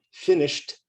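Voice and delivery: "Finished" in two syllables, ending in t; "Finished" said like "finisht"; silent E. Shown as a demonstration. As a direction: say "Finished" with no E before the final t. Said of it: "because the E is silent".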